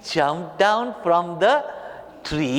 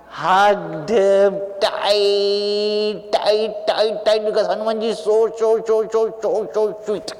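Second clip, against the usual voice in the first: higher, "tight" stretched long; gushing affection; 3 semitones higher, slower than usual. A narrator's reading. Storyteller shows Ram hugging sweet Hanuman, gushing. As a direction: repeat the words as if squeezing in a hug.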